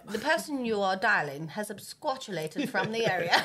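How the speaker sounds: formal automated-message voice, put on; mock voicemail announcer. Answering a caller as the voicemail, mock formal announcer. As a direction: recite it like a recorded phone message.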